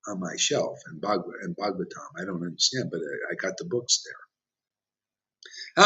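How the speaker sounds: smug devotee. Retold or imitated. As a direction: lightly mimic a pious book-owner, slowing at the end. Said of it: "Ooh, Prabhupada said".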